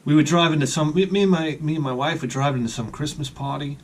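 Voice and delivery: talking round a cigarette; cigarette in mouth. Real, not acted. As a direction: speak with a cigarette between lips. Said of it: "I gotta light a cigarette".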